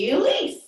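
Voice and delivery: "Elise" in two beats, pitched high and rising; one beat per syllable. Shown as a demonstration. Teacher repeating the two moves, "Elise" high and syllable by syllable. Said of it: "a movement with two moves".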